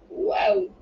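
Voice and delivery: high, loud delighted gasp; thrilled at a gift; excited. A narrator's reading. Pulling out summer dresses.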